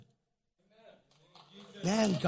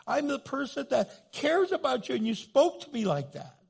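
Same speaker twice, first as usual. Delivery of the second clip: high, indignant, wounded protest; hurt rebuke; 7 semitones higher than usual. Acted. Hurt family member rebuking the one apologizing, high wounded protest. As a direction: pitch it high and press each accusation.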